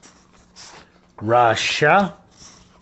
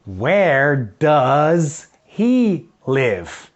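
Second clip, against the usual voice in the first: slow model question; much slower than usual. Shown as a demonstration. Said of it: "Ok, so".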